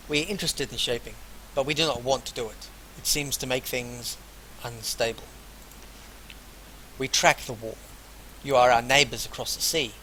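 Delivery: deliberate, projected reading of a character's lines; read-aloud dialogue. Acted. Player voices Masha about her lands, deliberate read-aloud. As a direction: read the dialogue out without an accent.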